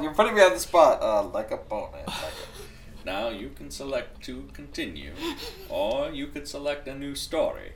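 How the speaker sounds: a rough stab at Morgan Freeman's voice; laugh-broken, put-on narrator voice; reading the menu as a hammed-up Morgan Freeman; Morgan Freeman impression. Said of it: "can you do the Morgan Freeman voice".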